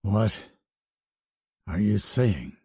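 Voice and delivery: sniffling. A narrator's reading. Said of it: "she sniffled".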